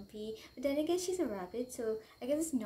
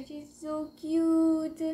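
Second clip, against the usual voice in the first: gushing; 4 semitones higher, 6 dB louder, much slower than usual. Real, not acted. Gushing over her new bunny.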